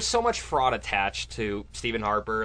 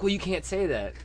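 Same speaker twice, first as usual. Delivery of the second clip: higher-pitched mock objectors; 10 semitones higher than usual. Objectors telling a comic what he can't say, mock objection. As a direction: quote the objectors at a raised pitch. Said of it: "they were like".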